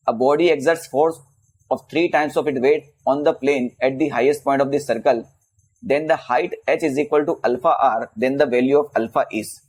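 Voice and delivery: measured, word-by-word textbook read; reading out a question. Real, not acted. Teacher reading a physics problem to students, slow and measured. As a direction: read the exam problem out slowly.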